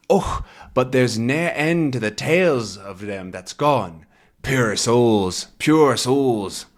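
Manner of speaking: hushed Scots whisper; whispered Scottish tale. Acted. Teacher reading the old man's ghostly tale, whispered. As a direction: breathe it like a ghost story.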